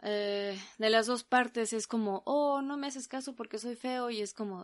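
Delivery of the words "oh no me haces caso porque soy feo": mock whiny ugly guy. Imitating a rejected man.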